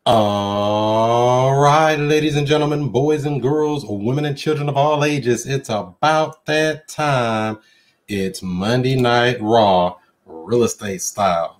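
booming ringmaster, stretched-out build-up. Pretend. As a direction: hype the crowd like a ring announcer opening the show. Wrestling-style show opening announcement.

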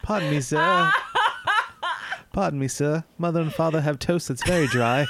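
a hint of a polite old-timey urchin; lightly voiced Oliver Twist type beggar; begging urchin. Co-host plays a hungry Depression-era kid asking politely.

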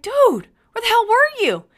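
high, very loud retold demand; angry shout. Parent confronting the son just picked up, angry shouting. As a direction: yell it as an exasperated parent.

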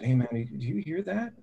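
normal talking voice

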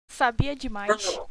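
slow, menacing villain line; mustache twirling villain. Acted. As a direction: draw it out like a cartoon bad guy. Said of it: "eu imaginei o culpado de Washington falando". (vilão caricato, bem devagar)

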